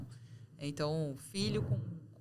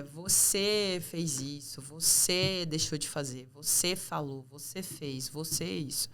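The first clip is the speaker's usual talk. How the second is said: ênfase pesada e arrastada em cada "você"; acusador; much slower than usual. Acted. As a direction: aponte o dedo com a voz, martelando "você". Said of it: "entra dentro da comunicação muito no julgamento". (tom de acusação, batendo no "você")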